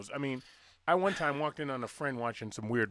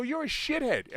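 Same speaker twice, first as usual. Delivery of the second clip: imitating son; 11 semitones higher than usual. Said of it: "he said it with more emphasis than that".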